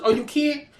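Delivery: ordinary talk, nothing marked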